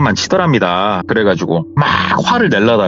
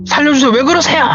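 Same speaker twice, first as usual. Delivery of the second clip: high, panicked yell for help; retold cry for help; faster than usual. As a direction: shout for help, trapped and scared. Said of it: "막 소리를 질렀대요". (살려달라고 높게 외치는 소리)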